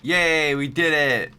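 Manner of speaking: loud cheering yay; happy yay. Real, not acted. Cheering after winning fight.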